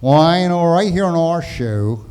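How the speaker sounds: put-on stiff old TV host introduction; Ed Sullivan. Host introducing an act on his show, mild impression. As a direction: lightly imitate a variety show host. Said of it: "we used to do Ed Sullivan".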